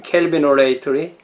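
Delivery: 켈비노레이터리 with kel at the start; English-style 켈비노레이터리, rising at the end; English term pronunciation. Shown as a demonstration. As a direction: repeat 켈비노레이터리 carefully as English Calvinolatry. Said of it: "발음할 수 있게요".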